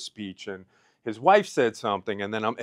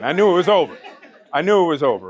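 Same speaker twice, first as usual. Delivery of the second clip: laughing through tears; 5 semitones higher, 7 dB louder, faster than usual. Real, not acted. Tearful laugh recalling breakdown.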